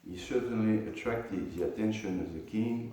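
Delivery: measured, formal reading aloud; scripture commentary reading. Acted. Teacher reading the purport to students, measured reading aloud. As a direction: read the commentary out to a class.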